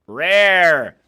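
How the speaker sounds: sudden loud burst on one word; emphatic shout. Real, not acted. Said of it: "empathetic people are fucking rare".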